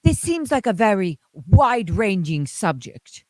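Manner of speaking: lightly voiced formal TV interviewer; polite, stiff broadcast questioning. Imitating the interviewer asking Hubbard how it started. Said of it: "I totally change into his voice".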